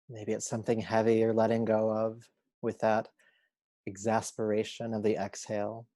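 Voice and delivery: unhurried meditation guide voice; calm, measured yoga teacher guidance; guided relaxation. Acted. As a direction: lead them gently into rest, leaving long pauses.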